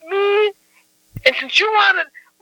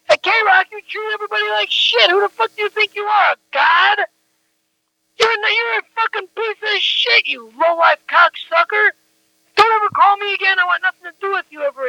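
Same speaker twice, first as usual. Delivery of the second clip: higher-pitched, indignant rant; furious telling-off in a raised pitch; angry tirade; 4 semitones higher than usual. Real, not acted. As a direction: tear into someone who has wronged you. Angry tirade on a phone message.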